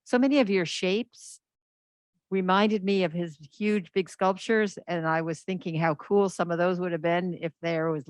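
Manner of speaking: muffled behind a mask; talking through a mask; through a face mask. Real, not acted. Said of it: "with my mask on".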